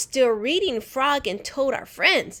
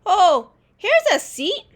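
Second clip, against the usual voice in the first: teacher voice; 11 semitones higher, 8 dB louder than usual. A narrator's reading. Teacher seats boy.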